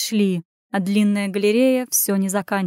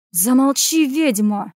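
mildly raised, gruff rebuke; snapped order; 3 semitones higher, 3 dB louder, slower than usual. A narrator's reading. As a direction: snap at someone to shut up. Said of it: "рявкнул кто-то".

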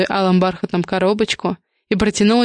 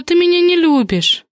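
capricious pout; 10 semitones higher than usual. Acted. Hostess sulks at her brother who won't toast, hammed-up pout. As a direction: sulk theatrically. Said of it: "капризным голосом".

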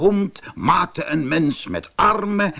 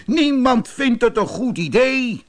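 high-pitched storybook protest; angry cry; 10 semitones higher, 3 dB louder than usual. A narrator's reading. Animals object to the prairie dog, calling out angrily. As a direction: cry out high and indignant, acted. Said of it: "boos te worden en ze riepen".

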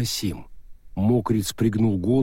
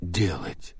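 slow stone monotone; 2 semitones lower, 4 dB quieter, much slower than usual. Acted. Golem ghost asks.

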